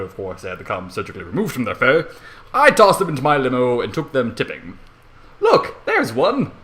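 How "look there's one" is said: high, slow, pointing out the window; excited shout. Acted. Narrator spotting fedora tippers from the limo, high excited shout. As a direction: call it out thrilled, drawn out. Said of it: "I shouted ex-, excitedly".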